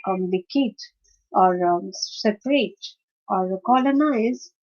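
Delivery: "complicate", "separate", "colonize" stressed at the start; weight the first syllable, then let "complicate", "separate", "colonize" flow on; front-stressed "complicate", "separate" and "colonize" in one even flow. Shown as a demonstration. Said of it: "the stress is on the first syllable".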